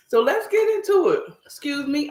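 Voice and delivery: talking through a bite; chewing while talking. Real, not acted. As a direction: mouth full. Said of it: "I am eating".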